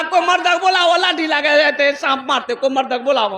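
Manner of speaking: high, put-on panicky voice; the young man mimics the women's cry; mock womanly cry. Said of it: "ये भी बोल रहा". (ज़नाना आवाज़ में नकल करता हुआ)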